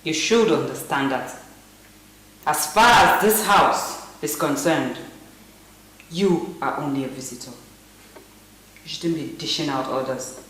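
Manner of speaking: indignant assertion. Acted. Woman tells visitor who gives orders, indignant. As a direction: put the visitor firmly in their place, word by word. Woman confronts nurse over authority.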